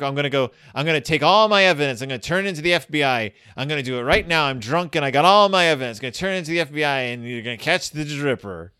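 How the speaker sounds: rapid slurred boasting; fast drunk babble. Retold or imitated. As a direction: ramble on fast and tipsy. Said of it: "they're like".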